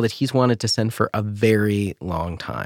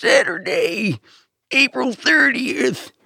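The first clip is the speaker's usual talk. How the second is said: put-on very high, elderly, old-man monster truck announcer voice. Showing how a very old man would do Monster Truck voice. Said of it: "a very old man doing Monster Truck voice would be like".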